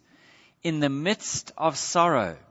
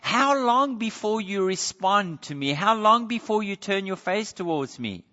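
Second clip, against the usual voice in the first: raised-pitch, insistent appeal; pouring out; 5 semitones higher than usual. Acted. Psalmist bringing his complaint to the Lord, pouring it out. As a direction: plead upward as if asking yet again. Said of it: "It's an ongoing pouring out saying".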